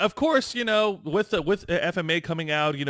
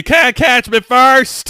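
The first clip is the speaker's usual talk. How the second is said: slow, louder, higher Texan drawl on "can't"; Matthew McConaughey drawl; 11 semitones higher, 16 dB louder, much slower than usual. Shown as a demonstration. Co-host showing how McConaughey says the line, slow Southern drawl. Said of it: "you gotta say it right".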